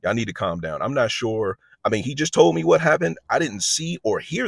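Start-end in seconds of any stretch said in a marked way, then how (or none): 0.0-0.8 calming voice. Retold or imitated. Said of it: "I kinda jump up and I'm like".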